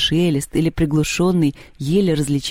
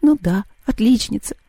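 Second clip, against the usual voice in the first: higher, tearful mock agreement; a hint of sniffles, pitched up; sniffly; 5 semitones higher than usual. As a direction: say it as if close to tears. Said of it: "хлюпнула носом Маша".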